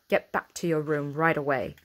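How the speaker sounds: a stern housekeeper's challenge; mild growl of a strict housekeeper. A narrator's reading. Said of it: "she growled".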